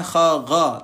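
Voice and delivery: kha and gha from the upper throat; over enunciating. Shown as a demonstration. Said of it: "tenggorokan atas". (kha, gha dari tenggorokan atas)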